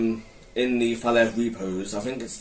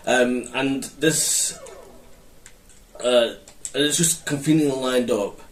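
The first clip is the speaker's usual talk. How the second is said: halting stammer, restarting words; stuttering. Real, not acted. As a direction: trip over the words. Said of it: "I'm stuttering a bit".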